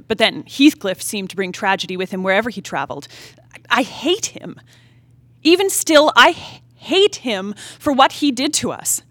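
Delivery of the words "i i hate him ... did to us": bitter anger. Acted. Her bitter outburst against Heathcliff.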